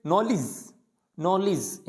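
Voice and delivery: नॉलेज starting on n, no k; नॉलेज with a mute K; silent K. Shown as a demonstration. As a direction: begin नॉलेज straight on the n. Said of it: "के यहाँ पे भी क्या होता है".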